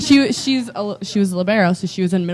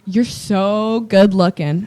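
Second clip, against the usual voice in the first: quoting Fred through laughter; much slower than usual. Retold or imitated. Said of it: "And Fred goes".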